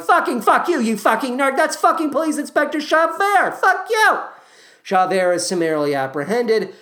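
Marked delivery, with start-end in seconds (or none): 0.0-4.2 put-on a little boy shouting insults; angry kid Gavroche. Gavroche exposing Javert to the rebels, high bratty yell. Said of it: "Gavroche appears and is like".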